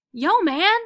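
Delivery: high, loud yell; excited dog barking for a treat; barking call. A narrator's reading. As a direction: call out across the room. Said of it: "Lance is barking".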